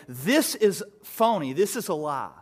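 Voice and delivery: mock a doubter's dismissal; mocking skeptic. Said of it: "There were people like Doctor Ehrman who would say".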